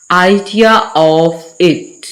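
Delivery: idea-r-of it, each word stretched; slow linked demo. Shown as a demonstration. Teacher modelling the linking r slowly for students. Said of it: "जब इसे मिला के पढ़ेंगे".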